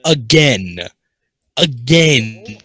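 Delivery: loud high startled yell; startled shouting. Real, not acted. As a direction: shout after a jump scare. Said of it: "I got spooked".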